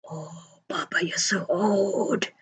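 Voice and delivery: put-on slow, stunned whisper, drawing out OLD; hushed mock-shocked whisper; awed whisper. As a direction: whisper it like a dawning, horrified realisation. Child's awed realisation of dad's age.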